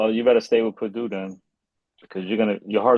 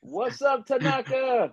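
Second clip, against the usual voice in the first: high, soft disguised voice; high comic altered voice; 12 semitones higher, 5 dB quieter, slower than usual. Pretend. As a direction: put on a high-pitched silly disguise. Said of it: "With an altered voice".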